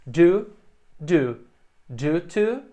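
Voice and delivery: "due to" said as "do to", rhyming with do; "Do, do, due to" with due sounding exactly like do. Shown as a demonstration. Teacher showing students "due" sounds like "do", the words punched loud. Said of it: "Ambas têm a mesma pronúncia".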